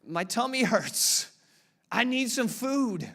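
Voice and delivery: high, slow mock wail; stretched, hammed-up infant complaint; crying baby. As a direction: whine like a hungry baby. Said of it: "Or you would cry".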